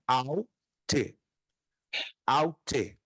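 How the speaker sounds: "aute" slowly, syllable by syllable: AU... TE; careful drawn-out "aute" for learners to copy; teaching pronunciation. Shown as a demonstration. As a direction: separate the AU and TE of "aute". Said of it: "Aí sim é".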